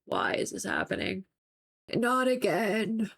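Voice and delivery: lightly voiced sulking dog; moping dog. Upset dog watching owner clean again, mock-moping. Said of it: "literally moping".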